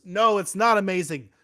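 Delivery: a mild hammed-up telling-off; mock scolding. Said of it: "And Gandalf says".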